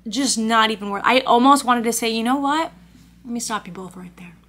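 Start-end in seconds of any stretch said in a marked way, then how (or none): 2.1-4.4 hushed, unvoiced; whispered imagined comeback. Imagined comeback to the baristas, whispered.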